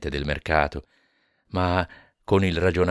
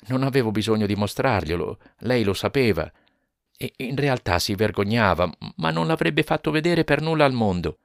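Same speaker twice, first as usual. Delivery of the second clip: lightly higher husband's voice, earnest; husband explaining his wife's shame, mildly higher; a hint of Jonas; 6 semitones higher than usual. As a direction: explain gently, a bit raised. Jonas speaking in story.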